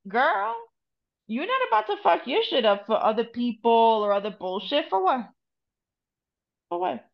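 retold scolding. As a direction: lightly act out a chiding guide. Voicing spirits scolding her.

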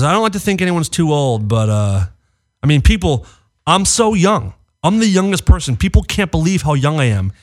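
lightly voiced boastful Trump; imitating Trump. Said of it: "He goes".

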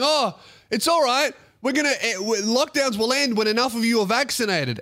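lightly voiced mocking politician; mock government reassurance. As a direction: play the smug official brushing it off.

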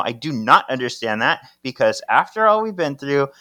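acted telling-off, hitting key words hard; yelling. Paige berates Henry for his suicide mission, acted yelling. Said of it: "Paige is yelling at Henry".

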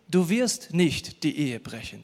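wirst slow and weighted, a promise not a rule; preacher stresses wirst to his congregation, slowly. Shown as a demonstration. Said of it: "Da steht übrigens nicht".

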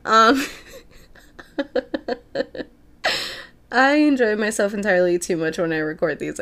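ordinary delivery

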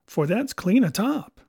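firm pirate assurance; pirate sailor. Acted. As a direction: insist like a gruff old seaman. Morgan's pirate voice in story.

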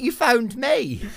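exasperated, pointing out that they called him; indignant. Retold or imitated. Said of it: "I was like".

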